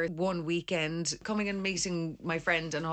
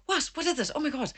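raised pitch, mock-startled questions; startled reply; 8 semitones higher, faster than usual. Archaeologist answers the digger's shouting, acted surprise. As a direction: act out being taken aback.

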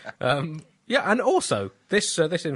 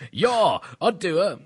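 Zuma's mock exclamation; 6 semitones higher, 5 dB louder, much slower than usual. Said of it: "Jacob Zuma says whenever he sees any woman".

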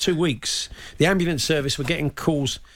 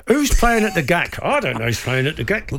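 ventriloquist dummy; 6 semitones higher than usual. Pretend.

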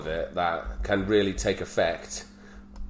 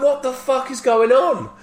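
high, slow, loud disbelief; exasperated retold yell; 8 dB louder than usual. Soaked son reacting to dad's attack, hammed-up yelling. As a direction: wail it out in comic bewilderment. Acted bewildered outburst.

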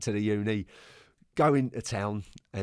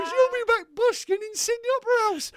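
mock Australian; 4 dB louder than usual. Australian player mocking the gaffer, high mock Aussie. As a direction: ham up the Aussie youngster. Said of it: "he goes".

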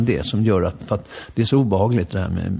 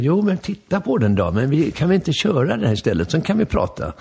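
impatient pushing; 6 semitones higher than usual. Retold or imitated. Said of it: "Jag är lite otålig där".

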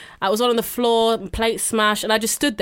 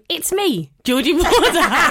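high, slow, squeaky impression; hammed-up parody of her friend's intro; mocking her voice; 7 semitones higher, 4 dB louder, slower than usual. Teasing her co-host by imitating her intro, squeaky and slow. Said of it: "you sometimes you go".

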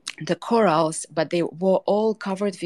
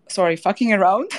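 laughing; 5 dB louder than usual. Real, not acted. Laughs at own slip.

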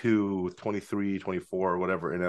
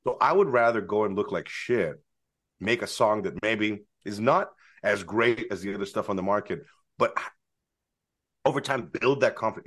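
talking while chewing gum; chewing gum between words. Real, not acted. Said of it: "I should stop chewing gum".

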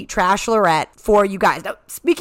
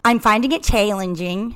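put-on Minnesota accent that slid South African; "challenging" with a South African twang instead of Minnesota vowels; botched Minnesota accent. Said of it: "more South African than I meant".

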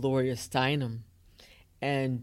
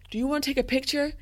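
imitated sweet offer; 11 semitones higher, much faster than usual. Imitating First Lady's kind offer.

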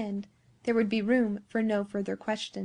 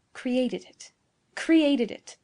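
incredulous echo; 3 semitones higher, much slower than usual. A narrator's reading. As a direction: echo it in mounting disbelief. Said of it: "repeated Giovanni".

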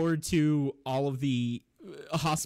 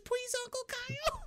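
put-on much higher, tiny baby's pleading voice; baby begging; 6 dB quieter than usual. Baby spits out pacifier to beg Uncle Kyle, very high baby voice. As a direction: plead like a toddler just off the pacifier. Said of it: "the baby pops out his pacifier".

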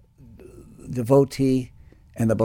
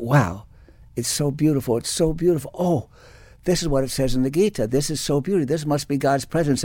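awed wonder; 4 semitones higher than usual. Retold or imitated. Awed thought in the hot tub.

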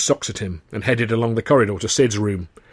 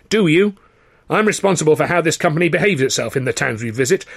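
raised, indignant managerial voice; higher, louder moral dressing-down; stern company boss lecturing; 5 semitones higher, 3 dB louder than usual. Acted. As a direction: lecture like a self-important boss. Sid lecturing on company conduct.

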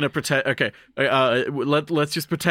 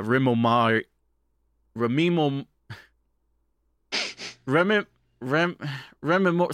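half asleep. Real, not acted. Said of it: "sorry, I'm half asleep".

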